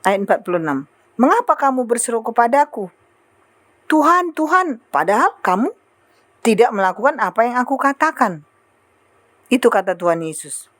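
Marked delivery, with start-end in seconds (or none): 1.2-8.4 reproachful rebuke, raised pitch on the name; mildly angry. Acted. Lord rebuking those who only call on him, mildly angry. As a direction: confront them with a mildly indignant question. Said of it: "kayak marah ya".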